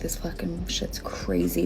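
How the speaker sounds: slow, voiceless awed whisper. Retold or imitated. Bartender retelling her reaction to champagne poured out. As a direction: breathe it out in disbelief. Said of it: "I'm just like".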